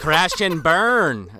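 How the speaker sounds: slow, drawn-out Belgian accent attempt; weak Van Damme Belgian accent; Jean-Claude impression. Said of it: "I can't do a good, uh, Jean-Claude".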